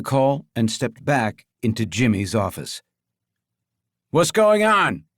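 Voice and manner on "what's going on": calling out. Acted. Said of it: "Jimmy called out".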